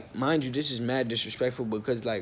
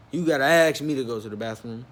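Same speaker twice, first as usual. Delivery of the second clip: incredulous echo; 5 dB louder than usual. Retold or imitated. Storyteller questions the manager's bathroom rule, incredulous. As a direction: repeat it in disbelief, starting louder. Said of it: "that don't sound right".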